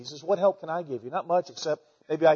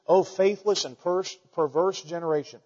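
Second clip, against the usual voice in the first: exasperated. Retold or imitated. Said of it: "he seems a little exasperated".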